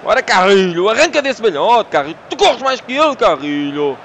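loud urging yell at a player; loud, eager shout at the screen; cheering on. Real, not acted. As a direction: drive him forward with your voice. Urging his player on in the match.

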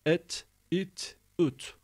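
"Et, it, üt" with plain unechoed T; no qalqalah. Shown as a demonstration. Teacher drilling students, crisp "Et, it, üt" with no echo. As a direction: end each of "Et, it, üt" on T without adding a vowel. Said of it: "Bunda kalkale yoktur arkadaşlar".

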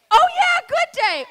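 high, loud, gushing hello; over-the-top greeting. Acted. Comic hamming up a greeting to audience member Steven. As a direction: greet him like a game-show host.

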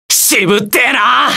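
slow, straining yell; pained battle shout; strained shout. Acted. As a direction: force it out through effort. Battle grunt line, cry heard.

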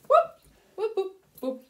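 high, loud playful whoop; excited whoop. Pretend. Teacher cheering a toy for the class, playful whoop.

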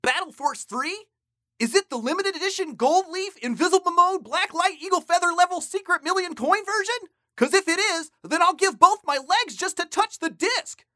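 high, loud gushing over a game; excited gamer. Acted. Gamer asking after a rare limited edition, wildly excited. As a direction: rattle off the prized edition in high-pitched excitement.

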